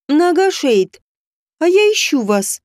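put-on bright ringing young princess. A narrator's reading. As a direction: call out to him brightly like a princess. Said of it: "звонкий голос принцессы Дедери".

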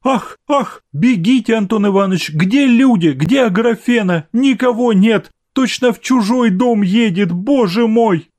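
high, frantic calling out; mother panicking before son's arrival, high and frantic; flustered. A narrator's reading.

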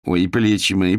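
groaning over aching shoulders, mock-pitiful; a hammed-up complaint of pain; plaintive moan. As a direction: owner moaning to dodge the workers. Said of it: "жалобно простонала она".

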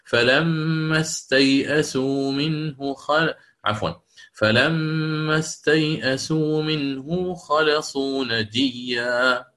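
slow recitation of استيئسوا منه with the hamza kept; first reading. Shown as a demonstration. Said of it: "سيقرأ هكذا". (تلاوة بطيئة بالوجه الأول مع الهمزة)

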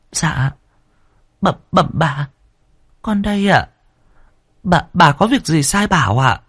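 high, timid faltering reply; trembling mumble. Acted. Servant girl answering the angry mistress, high and timid. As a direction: stammer it, scared of the mistress. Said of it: "run rẩy lý nhí".

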